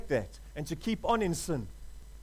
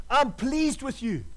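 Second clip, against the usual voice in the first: slow and a little higher, each word spaced out; slow, emphatic; 4 semitones higher, slower than usual. Shown as a demonstration. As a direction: draw it out slowly so it sinks in. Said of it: "God is saying to you today".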